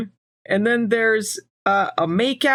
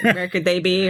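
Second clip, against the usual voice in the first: put-on robotic monotone, lower; 4 semitones lower than usual. Retelling how a character talks on arrival: imitating a robot voice. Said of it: "Piper speaks like a robot".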